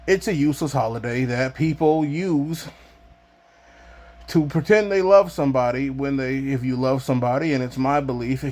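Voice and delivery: breathless, gasping for air; talking while short of breath. Real, not acted. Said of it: "I'm out of breath".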